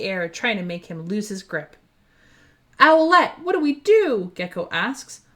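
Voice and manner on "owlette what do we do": high, loud panicked call; frightened cry to his friend. Acted. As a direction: plead for an answer, alarmed. Panicked call mid-crisis.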